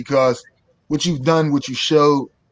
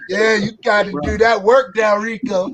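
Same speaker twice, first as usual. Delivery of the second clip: put-on Midwest Southern accent; 3 semitones higher than usual. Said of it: "that Midwest Southern accent drawl".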